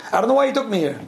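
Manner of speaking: mock complaint. Wife grumbling about the weekend trip, mildly acted complaint. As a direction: imitate a displeased spouse complaining. Voices a displeased spouse's complaint.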